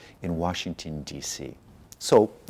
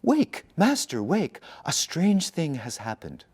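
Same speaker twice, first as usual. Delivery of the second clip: urgent cry; 8 semitones higher than usual. Acted. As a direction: shake the old priest awake, calling out.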